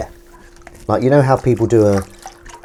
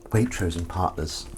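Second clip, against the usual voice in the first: imitating Sue; 2 semitones lower, 8 dB quieter than usual. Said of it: "I love the way how Sue says that".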